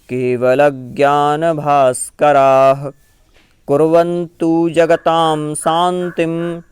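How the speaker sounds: measured chant of a Jain prayer verse; recited Sanskrit verse. Shown as a demonstration. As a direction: recite each word slowly and clearly.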